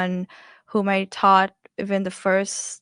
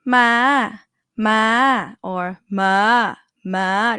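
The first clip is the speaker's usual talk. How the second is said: "ma" stretched long and held high; 4 dB louder, much slower than usual. Shown as a demonstration. Teacher shows a live syllable, long high-tone vowel. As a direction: draw out "ma" with a lifted pitch. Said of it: "high tone".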